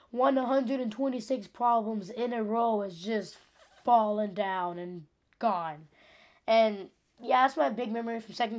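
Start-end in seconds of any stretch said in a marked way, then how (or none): 0.1-5.9 mildly mournful, word by slow word; mock lament. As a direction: drag it out, dropping away on "gone". Laments the lost streak.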